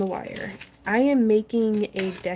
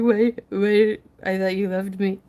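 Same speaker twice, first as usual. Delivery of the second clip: mock hurt husband; 4 dB louder than usual. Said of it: "cute little face of horrible neglect".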